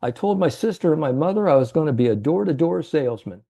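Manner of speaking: a hint of the old salesman, rattling it off; old salesman's voice. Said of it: "how he talked to".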